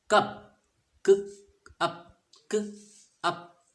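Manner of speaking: loud "कप" then slow "क", "अप"; sounding out cup. Shown as a demonstration. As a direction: split "कप" into "क" and "अप", slowly. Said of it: "इसका sound बन रहा था अ". ("कप" को "क" और "अप" में धीरे तोड़ें)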